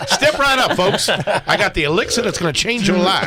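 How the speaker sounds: snake oil seller. Pretend. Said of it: "selling his wares from town to town".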